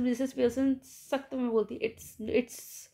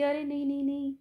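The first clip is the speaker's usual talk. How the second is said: tearful pleading; 3 semitones higher than usual. Retold or imitated. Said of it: "कहती".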